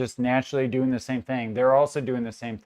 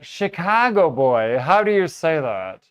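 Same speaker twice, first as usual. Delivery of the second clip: retold old woman; 3 semitones higher, 5 dB louder than usual. Retelling an Australian customer's question, lightly imitated old woman. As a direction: lightly imitate her calling him over. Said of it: "this old woman".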